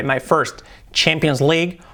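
slow "Even if it's my first" with a strong R in "first". Shown as a demonstration. Teacher slows down to show the strong R. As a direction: linger on "first", hit the R. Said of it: "la R fuerte".

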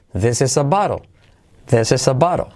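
"this is a bottle" run together as "desesa baro"; linked words. Shown as a demonstration. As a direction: link every word of "this is a bottle". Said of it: "Todo unido". ("this is a bottle" todo unido)

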